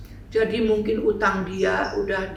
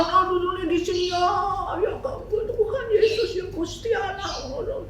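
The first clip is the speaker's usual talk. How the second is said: intense prayer; 10 semitones higher than usual. Retold or imitated. Intense prayer while hugging.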